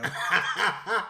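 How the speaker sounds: short amused laugh; a quick real laugh. Real, not acted. Laughs at reading a name.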